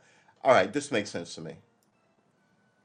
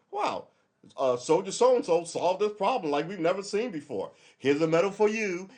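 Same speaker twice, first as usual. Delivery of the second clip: mock praise; 7 semitones higher, 3 dB louder than usual. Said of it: "And you may go".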